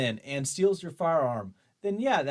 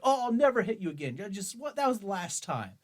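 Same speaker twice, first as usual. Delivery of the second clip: higher, fast mock boyfriend pleading; abusive boyfriend; 7 semitones higher than usual. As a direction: rattle off fake apologies like a bad boyfriend. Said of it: "like an abusive boyfriend".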